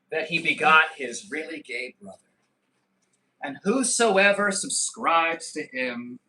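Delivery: slow, solemn scripture reading; mock preacher. Parodying a Bible verse about Andrew Tate, solemn preacher. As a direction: intone it like a pulpit reading.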